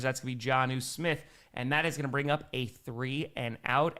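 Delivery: animated sportscaster call, settling as the play dies; game commentary winding down; live play-by-play. Real, not acted. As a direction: follow the ball as it moves.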